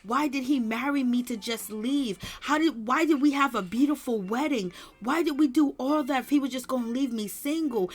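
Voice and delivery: mock tearful pleading; a touch of tearful despair, retold; imitating her crying. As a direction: lightly act out a distraught wife's sobbing questions. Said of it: "she is breaking down and she is crying to Yandy".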